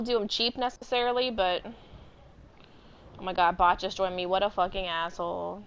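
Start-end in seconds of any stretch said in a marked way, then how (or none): none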